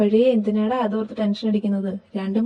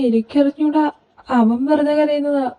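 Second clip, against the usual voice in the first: higher-pitched, innocent protest; defensive denial; 5 semitones higher than usual. Acted. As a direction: plead ignorance, pitch raised. Caught by mother, denies blame.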